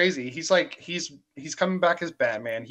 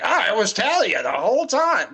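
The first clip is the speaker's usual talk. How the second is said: mocking; 6 semitones higher, 5 dB louder than usual. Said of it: "And I'm like".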